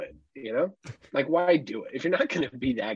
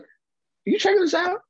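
excited loud bragging; 3 semitones higher, 5 dB louder than usual. Retold or imitated. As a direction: call out proudly to the whole pool. Dad bragging loudly at swim class.

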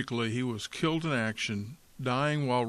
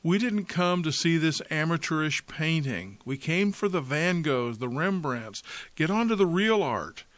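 angry shout; 3 semitones higher than usual. Acted. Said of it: "Another voice shouted angrily".

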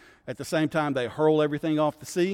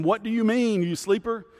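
alarmed captain; 7 semitones higher, 4 dB louder than usual. Retold or imitated. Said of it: "the captain came and said to him".

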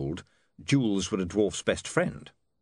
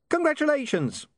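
giggly sneering imp. Acted. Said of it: "said the imp".

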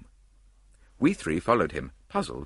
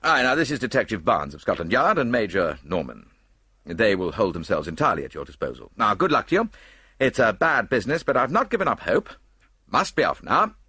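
a touch louder, brisk official send-off; hearty statesman wishing luck; brisk Minister; 4 semitones higher, 4 dB louder than usual. Acted. Minister hands Poirot to Scotland Yard, briskly.

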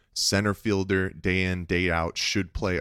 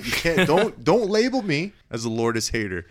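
mock protest; 3 semitones higher than usual. Playful protest, raised pitch.

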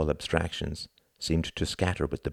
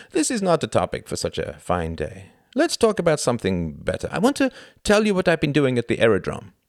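a hint of a proud young German; earnest, a touch higher; lightly voiced Klaus; 9 semitones higher, 6 dB louder than usual. A narrator's reading. Klaus confiding in Tom on the walk, earnest.

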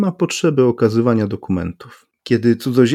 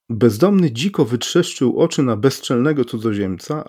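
plain reading voice

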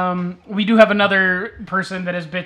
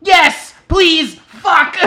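louder, higher pleading yell; mock desperate plea; retold begging shout; 8 semitones higher, 7 dB louder, much slower than usual. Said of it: "they were like".

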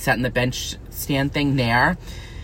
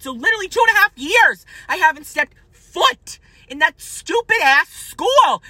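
scene: vlogger telling off former classmates, voice shooting up higher; rising rant; 6 semitones higher than usual. Real, not acted. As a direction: pitch climbs higher and higher, indignant. Ranting, voice rising very high.

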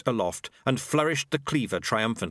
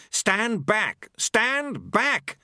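high-pitched frantic command; screamed order; 11 semitones higher, 3 dB louder, much slower than usual. A narrator's reading. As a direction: cry it out high, without full shouting volume. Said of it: "he screamed".

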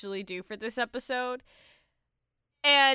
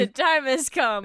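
louder, projected news-anchor announcement; emphatic newsreader delivery; news reporter; 6 dB louder than usual. Pretend. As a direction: proclaim it like a reporter opening the broadcast. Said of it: "talking like a news reporter".

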